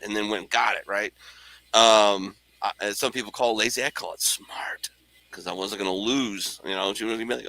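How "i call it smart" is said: a sly half-whispered aside; conspiratorial whisper, slowed down. Real, not acted. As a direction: drop to a whisper for the punchline. Sly aside about laziness.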